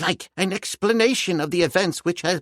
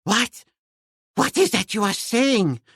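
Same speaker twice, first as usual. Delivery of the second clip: high, startled disbelief; astonished old professor cry; 11 semitones higher, 4 dB louder, slower than usual. Acted. Professor hears his treasure is found, astonished cry. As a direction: blurt it out in shock, old scholar's voice. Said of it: "cried the professor".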